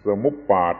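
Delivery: สมุปบาท with final syllable pat, not bat; Pali pronunciation. Shown as a demonstration. Teacher contrasting Pali with Thai habit, สมุปบาท said sa-mup-pat. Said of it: "เป็นไทยเราไม่ชอบว่าบาท".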